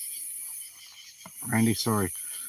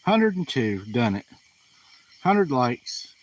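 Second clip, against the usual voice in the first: excited; 2 semitones higher, 5 dB louder, slower than usual. Real, not acted. Cheering at a like count.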